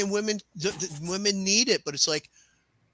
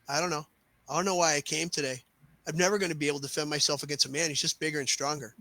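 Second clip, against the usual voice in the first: defeated; 3 semitones lower, 5 dB quieter, faster than usual. Retold or imitated. Woman in retold story gives up.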